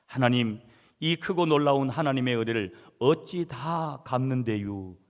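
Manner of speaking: imitating a Chungcheong dialect prayer, drawn-out 갚는데요 ending; lightly voiced Chungcheong accent, earnest prayer. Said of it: "충청도 사투리입니다, 여러분". (가볍게 흉내 낸 충청도 사투리 기도)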